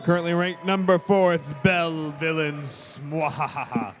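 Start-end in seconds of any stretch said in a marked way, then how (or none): 1.4-3.0 sneering panto villain. Pretend. Team name Bell Villains. 3.1-3.9 low hammy cackle after the name; evil villain laugh. Pretend. Villain team introduced.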